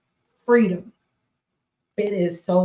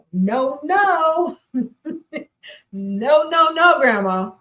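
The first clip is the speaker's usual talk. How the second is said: lightly imitating a little granddaughter's no, a bit higher; a playful, mildly higher child's no-no-no; 6 semitones higher, slower than usual. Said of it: "As my granddaughter would say".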